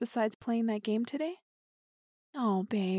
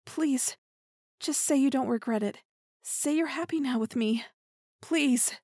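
pleading; 3 semitones higher than usual. Acted. Begging partner for reassurance.

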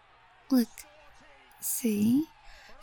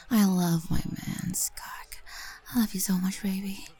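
whispering. Acted. Whispered intimate roleplay.

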